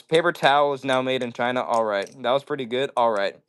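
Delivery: ordinary talk, nothing marked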